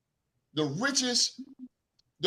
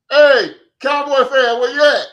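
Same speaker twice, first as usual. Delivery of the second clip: calling out; 6 semitones higher, 11 dB louder than usual. Retold or imitated. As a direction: holler it out like hunting someone down. Calling out across the store.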